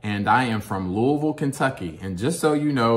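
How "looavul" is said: Louisville as a swallowed LOO-uh-vul; local pronunciation. Real, not acted. Telling viewers where he is from, local pronunciation. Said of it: "if you notice how I said that".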